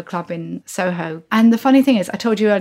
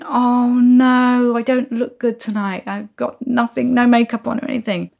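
higher-pitched retold dismay; mortified melting; 4 semitones higher than usual. Meeting crush without makeup, retold mortified wail. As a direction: melt with embarrassment, pitched up. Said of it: "I'm just melting".

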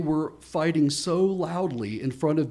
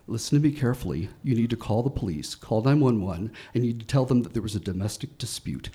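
a touch lower and calm, steady orders; low, urgent instruction; 4 semitones lower, faster than usual. Retold or imitated. Woman instructing neighbor to call the police, low steady urgency. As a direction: hold his eyes and give the instructions carefully. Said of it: "grabbed my hand and said, right in my eyes".

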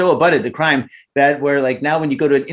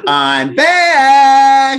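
Terminator voice; 10 semitones higher, 7 dB louder than usual. Pretend. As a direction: growl it like the Terminator. Terminator quote acted.

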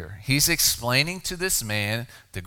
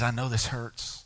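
compassionate. Acted. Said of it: "and he sighs, and he says".

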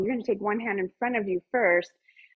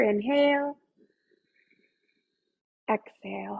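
ocean throat breathing. Shown as a demonstration. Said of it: "fogging the mirror".

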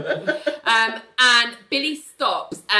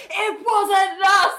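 slow, higher mock protest, first go; hurt protest; 7 semitones higher, slower than usual. Billy jumping up at the therapist, slow mock protest. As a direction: plead it, wounded and drawn out. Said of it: "Billy jumps up, so butthurt".

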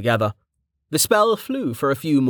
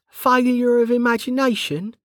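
drawn-out, higher, turning the phrase over; slow musing; 13 semitones higher than usual. A narrator's reading. Bregger repeating Rain's new phrase, slowly pondering. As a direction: savour each word, questioning. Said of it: "said Bregger slowly".

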